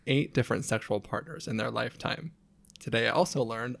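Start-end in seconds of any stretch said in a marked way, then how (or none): 2.8-3.8 laughing. Retold or imitated. Reading funny bio while laughing.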